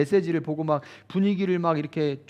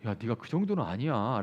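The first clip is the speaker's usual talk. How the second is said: gentle reassurance; 6 semitones lower, 8 dB quieter than usual. Retold or imitated. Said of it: "주변 사람들이".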